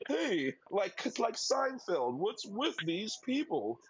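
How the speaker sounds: hint of a stand-up comic riffing on people; comedian bit. Mocking everyday annoyances like a comedian, lightly voiced, slow. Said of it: "like a comedian?".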